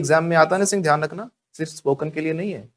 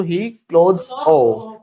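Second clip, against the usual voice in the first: slow wrong example; much slower than usual. Shown as a demonstration. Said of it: "फिर ऑफ क्यों लगा रहे हो?".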